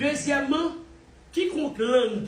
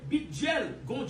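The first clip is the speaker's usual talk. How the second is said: mocking shout; 6 semitones higher, 4 dB quieter, slower than usual. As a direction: yell it out to mock him. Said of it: "nou va di, oy".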